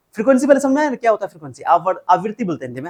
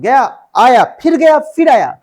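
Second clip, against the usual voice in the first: rhythmic calling out; 5 semitones higher, 9 dB louder, slower than usual. Real, not acted. Acts out the swinging motion.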